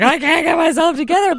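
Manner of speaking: high, whiny self-parody; mock weepy. Mother mocks her tearful live video, high and whiny. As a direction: wail it, making fun of your own breakdown.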